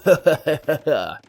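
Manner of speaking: hammed-up villain chuckle; mock evil cackle; evil laugh. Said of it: "my evil voice needs some work".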